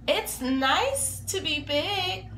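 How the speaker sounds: slow, a touch of sadness; wistful and a bit down; sadly. Acted. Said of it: "Big Bird said sadly".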